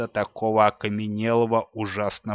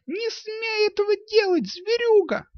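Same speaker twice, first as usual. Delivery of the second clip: put-on high girl's scream, pounding at her father; яростный высокий крик девочки; furious yell; 3 dB louder than usual. A narrator's reading. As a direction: hurl it at him while beating him with fists. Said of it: "заорала она не своим голосом".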